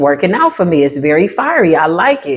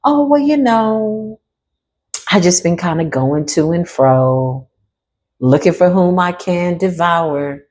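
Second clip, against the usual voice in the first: lightly voiced devil; slower than usual. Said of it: "interview the devil".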